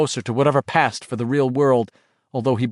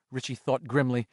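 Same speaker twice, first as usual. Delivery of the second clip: usual speaking voice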